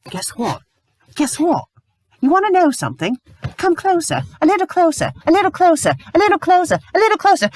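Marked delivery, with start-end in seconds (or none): 1.1-1.6 rising intensity. Real, not acted. Reviewer baiting viewers before a rant, teasing build. 2.2-7.5 high, teasing, growing louder; mock beckoning. Reviewer luring the audience closer, teasing whisper-game. Luring viewers before shouting.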